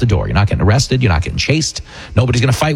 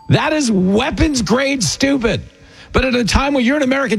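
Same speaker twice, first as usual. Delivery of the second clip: incredulous rant; 10 semitones higher than usual. Real, not acted. Ranting at Karen Bass's proposal.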